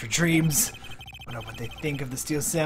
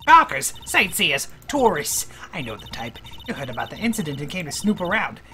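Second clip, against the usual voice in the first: lightly voiced nosy security lady; a hint of a tough old guard barking at gawkers; gruff guard voice. Streamer reading the studio guard scolding visitors, lightly put-on.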